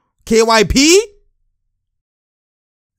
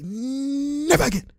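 mock threatening player; 10 semitones higher than usual. Streamer voices the player challenging his opponent, high mock threat. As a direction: play the riled-up player, pitched way up. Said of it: "He's like".

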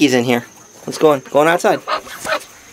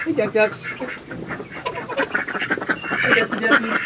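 duck call; 7 semitones higher, 7 dB quieter than usual. Real, not acted. Calling ducklings.

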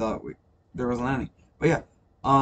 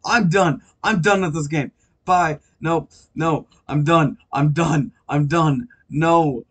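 raging gamer; 3 semitones higher, 4 dB louder, much slower than usual. Real, not acted. Rage at game after dying.

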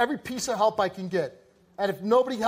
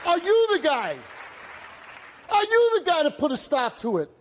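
raised, forceful demand; 5 semitones higher than usual. Real, not acted. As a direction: push the father to step up. Host challenging the father.

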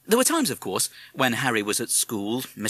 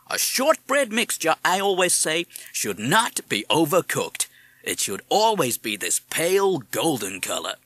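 American parrot voice; 5 semitones higher than usual. Acted. Madison explains baking.

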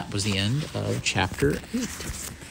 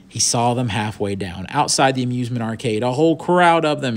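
story narration; 3 semitones higher, 5 dB louder than usual. A narrator's reading. Reads the story aloud.

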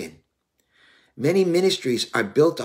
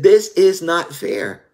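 complaining; 6 semitones higher, 7 dB louder, much slower than usual. Retold or imitated. Complaining to the Lord in prayer.

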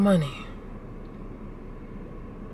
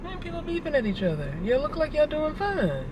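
high, soft wry aside; sarcastic aside; 8 semitones higher, 7 dB quieter than usual. Real, not acted. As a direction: mutter at the drivers with sarcasm. Remarking on traffic.

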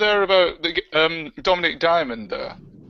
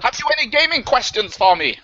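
grand oracle voice, higher; pompous game oracle; booming Games Master voice; 5 semitones higher than usual. Pretend.

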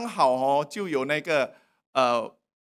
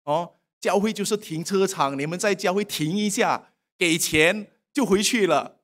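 sarcastic critic. Retold or imitated. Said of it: "有些人就讲一些讽刺的话".

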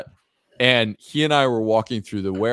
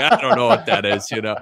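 louder, rough stab at Glaswegian; attempted Glasgow accent; 4 dB louder than usual. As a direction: imperfectly imitate a thick Glasgow Scot. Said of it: "I can't even imitate it".

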